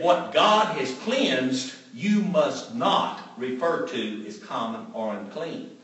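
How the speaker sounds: slow, measured rebuke from above; voice from heaven. Retold or imitated. Heaven's voice correcting Peter, slow and firm. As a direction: lay down the rule slowly and firmly.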